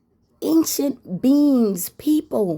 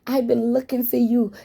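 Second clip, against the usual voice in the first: lightly voiced friend, much higher, starting in a whisper; excited old friend; 3 semitones higher than usual. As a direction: greet her like a long-lost friend with breathy delight. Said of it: "And she said".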